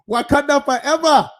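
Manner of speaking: loud, high battle-cry salute; hammed-up superhero cry; mock Wakanda salute. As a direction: shout it like a movie salute. Black Panther salute shout.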